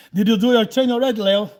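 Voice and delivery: loud, quick teasing call; loud playful nagging. Retold or imitated. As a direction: needle Leo loudly about training. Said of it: "teasing Leo".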